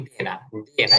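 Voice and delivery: "দে" as a bare de, no closing glide; the rejected "দে", lacking its glide; wrong pronunciation shown. Shown as a demonstration. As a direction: repeat "দে" without the final y sound. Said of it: "এটা হবে they".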